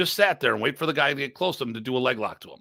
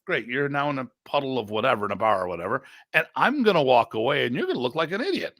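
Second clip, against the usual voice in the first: high, worked-up tirade at a rival; a high, incredulous rant at a rival fighter; heated rant; 6 semitones higher than usual. Retold or imitated. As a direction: get fired up and threaten him, pitched high.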